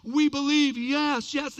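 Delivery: mock crowd shouts; crowd cheering. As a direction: keep cheering over someone trying to speak. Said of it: "they're just going".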